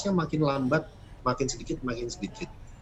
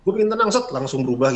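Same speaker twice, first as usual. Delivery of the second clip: mocking wish; 5 dB louder than usual. Mocking instant-calm wish.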